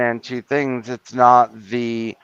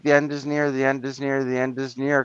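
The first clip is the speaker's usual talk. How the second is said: mock doom preacher; 6 dB quieter than usual. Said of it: "preaching gloom and doom".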